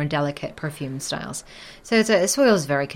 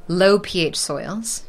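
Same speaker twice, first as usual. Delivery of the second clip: nice and slow; 3 semitones higher, slower than usual. Shown as a demonstration. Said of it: "nice and slowly for me".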